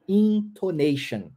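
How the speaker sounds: "Intonation" spelled out slowly, syllable by syllable. Shown as a demonstration. Teacher presents the English word slowly. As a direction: give "Intonation" slow, clear English syllables. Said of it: "nós chamamos em inglês".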